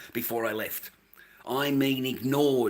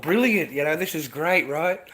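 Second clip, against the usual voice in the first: retold naive delight; 3 semitones higher, 3 dB louder than usual. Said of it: "I thought".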